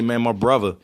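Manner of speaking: "brother" said as "bruvva"; Baltimore pronunciation. Retold or imitated. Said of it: "So when I would say".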